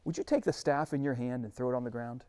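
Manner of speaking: God giving Moses a calm instruction, hushed; patient God. Acted. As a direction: hand him the next step quietly. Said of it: "He says".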